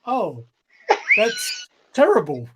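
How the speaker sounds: high, slow fake sympathy; mock sympathy. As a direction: act sorry while holding back laughter. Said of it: "I'm there like, going".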